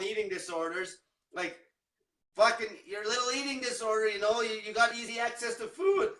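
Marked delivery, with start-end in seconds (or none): 4.7-6.1 the voice breaks mid-phrase; accidental pubescent voice crack. Real, not acted. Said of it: "voice crack like I'm fucking going through puberty".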